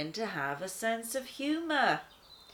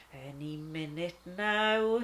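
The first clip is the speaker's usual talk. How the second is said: smiling; 2 semitones lower than usual. Acted. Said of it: "she smiled".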